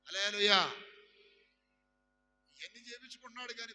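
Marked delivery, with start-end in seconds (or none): 0.1-0.7 loud preacher's cry of hallelujah; ringing hallelujah shout. Real, not acted. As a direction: call it out to the hall.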